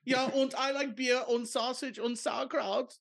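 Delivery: high mock German accent. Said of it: "That's how you talk".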